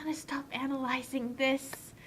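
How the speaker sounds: an unvoiced whisper to himself; whispered aside. Real, not acted. Friend gives up analyzing the plot, whispered aside. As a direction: whisper it, giving up.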